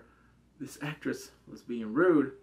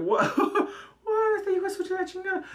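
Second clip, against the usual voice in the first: higher, louder, laughing through the words; real laughing what; laughing disbelief; 5 dB louder than usual. Real, not acted. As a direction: laugh at your friend in shock.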